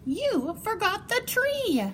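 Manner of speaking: put-on high, matter-of-fact kid; child's voice. Junior telling Pop he forgot the tree, high child voice. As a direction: point it out like a little kid.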